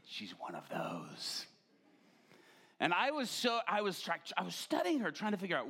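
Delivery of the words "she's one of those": mock realization. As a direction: jump up in surprise, then sink into a knowing mutter. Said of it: "And I'm like".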